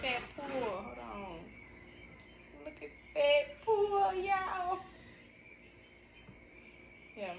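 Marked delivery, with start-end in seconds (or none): 2.6-4.8 shrill excited put-on voice; high squealed voice.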